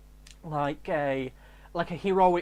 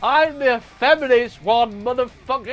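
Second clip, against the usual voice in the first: high, loud hysterical outburst; hammed-up ranting scream; Nerdy Girl; 6 semitones higher, 14 dB louder than usual. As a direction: shriek it as an outraged girl, ending on a cry. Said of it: "It'll probably be Nerdy Girl".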